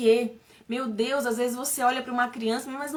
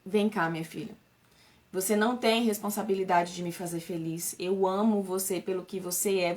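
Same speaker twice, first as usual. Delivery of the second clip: tender comfort; 3 semitones lower than usual. Retold or imitated. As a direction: soothe a hurt child and say sorry. Mother comforting crying daughter.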